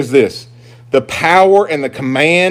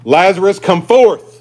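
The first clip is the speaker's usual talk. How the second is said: higher, louder commanding cry; loud call; 6 semitones higher, 5 dB louder than usual. Acted. Preacher voices Jesus calling Lazarus from the tomb, loud cry. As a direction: cry out to summon the dead. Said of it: "he cried out with a loud voice".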